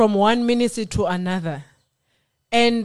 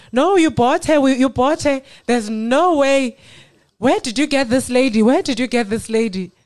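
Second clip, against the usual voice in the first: lightly voiced crowd, higher and louder in disbelief; amazed people; 4 semitones higher, 4 dB louder than usual. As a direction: mimic the stunned guests' disbelief. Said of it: "people said".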